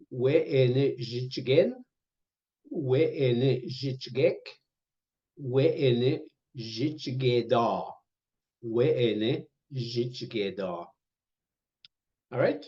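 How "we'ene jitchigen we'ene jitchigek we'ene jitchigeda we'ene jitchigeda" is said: slow review drill. Shown as a demonstration. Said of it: "review drill of words".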